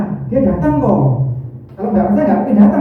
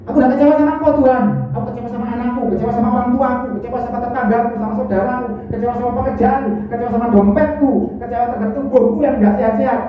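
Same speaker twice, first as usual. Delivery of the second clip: disappointed believer; 7 semitones higher, 3 dB quieter, faster than usual. Retold or imitated.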